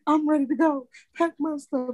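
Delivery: put-on high, pouty kid voice; imitating daughter. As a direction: sulk like a child threatening to leave. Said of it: "but she was like".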